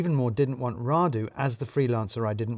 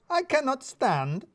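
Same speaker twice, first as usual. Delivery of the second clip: put-on slow, much higher accented voice; indignant, drawn-out foreign accent; accented Radu; 13 semitones higher, slower than usual. A narrator's reading. Radu refuses the boss, slow accented voice.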